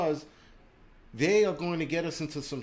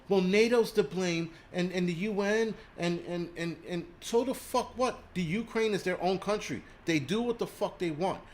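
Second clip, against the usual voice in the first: higher, mocking imitation of people who blame nato; mocking his critics; 6 semitones higher than usual. Streamer mocking viewers who blame nato, higher sneering imitation. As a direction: parrot the excuse in a higher, sneering voice. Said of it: "you people will sit there and go".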